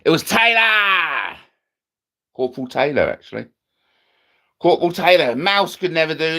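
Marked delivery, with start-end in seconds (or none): 0.1-1.4 shout. Retold or imitated. Army shout.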